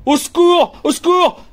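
very high, desperate call for help; imploring cry. Acted. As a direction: beg loudly to be rescued. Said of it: "implore qu'on lui rende la liberté".

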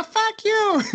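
the stick woman cursing him, in a mock high voice. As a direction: squeal it back like the lady did.

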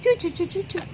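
very high chirping; bird chirps. Acted. Little bird calls Barbie for help, very high chirps.

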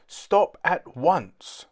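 loud, slow, deliberate command. A narrator's reading. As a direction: order the robot to halt, slowly. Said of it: "commanded Doohickey".

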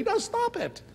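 a hint of a scolding counselor; mock stern snap. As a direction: cut them off firmly, half joking. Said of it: "You don't need to say".

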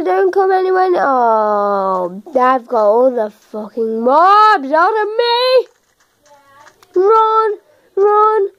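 frantic high yelling; yelling while running away. Real, not acted. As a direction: shout while fleeing in panic. Fleeing all mobs in game.

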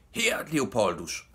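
high, slow hailing call; shouting. A narrator's reading. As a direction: call up to him, stretching the words. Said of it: "råbte de".

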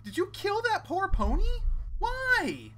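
loud, high mock-tough taunts; taunting challenge. Real, not acted. Player taunting a knife-wielding creature, loud mock-tough challenge. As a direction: square up and taunt it, brah.

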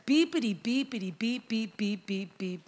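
rattled-off bleeps standing in for curses; mock telling-off. Woman telling God off in the wilderness, mock bleeped rant. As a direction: imitate a censored rant in beeps. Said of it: "And she tells God off".

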